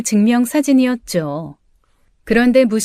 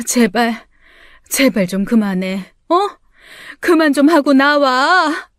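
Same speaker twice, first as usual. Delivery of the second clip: mom pleading in tears; 3 semitones higher than usual. Acted. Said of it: "울면서 제발 그만 좀 하고 나와달라고".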